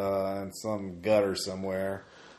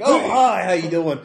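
eager nerd Larry. Acted. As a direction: gush like an overeager fan. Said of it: "so he's like".

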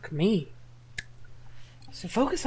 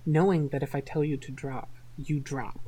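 hypnotic ASMR voice. Acted.

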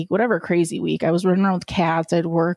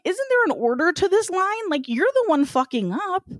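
incredulous higher; 9 semitones higher than usual. Retold or imitated. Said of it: "I wanted to be like".

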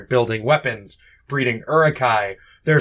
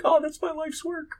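high, softer wailing orc; whiny orc lament; 6 dB quieter than usual. Pretend. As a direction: lament the lost work in a squeak. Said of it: "Some orc is just like".

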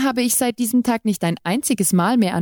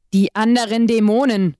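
burst out; 3 semitones higher, 3 dB louder than usual. A narrator's reading. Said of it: "stieß er aus".

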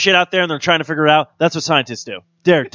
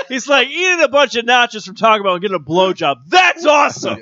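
laughing shout; 5 semitones higher than usual. Retold or imitated.

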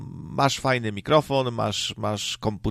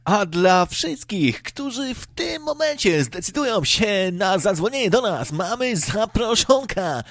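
radio DJ impression; 8 semitones higher than usual. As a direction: ham it up like a pushy FM presenter. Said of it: "Jeszcze taki specyficzny sposób mówienia".

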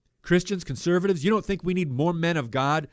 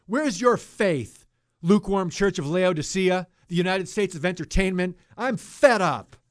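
outburst; 3 semitones higher than usual. Real, not acted. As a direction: scold them, fed up. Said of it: "Forgive me for my outburst".

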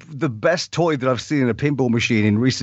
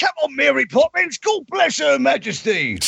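put-on British accent; 11 semitones higher than usual. Mocking British stereotypes.

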